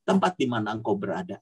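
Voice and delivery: fervent spoken prayer, tongues then petitions; praying in tongues. Acted. Sister prays over the children online, fervent prayer. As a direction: pour it out to God over the kids.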